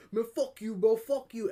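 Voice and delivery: high, loud imitated outburst; retold cursing. Jamaican guy curses out the pool worker, retold angry outburst. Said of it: "And then the Jamaican one".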